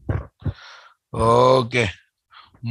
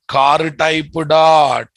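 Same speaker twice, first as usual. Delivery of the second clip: loud slow dictation; 2 semitones higher, 5 dB louder, much slower than usual. Shown as a demonstration.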